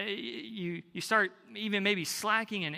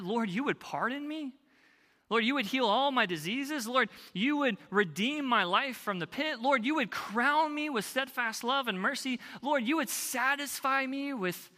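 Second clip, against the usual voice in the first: mounting praise; 5 semitones higher than usual. Acted. Rising psalm-like prayer list.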